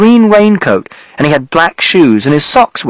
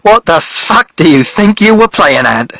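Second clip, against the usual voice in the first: angry man; 3 semitones higher than usual. Acted. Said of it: "he said".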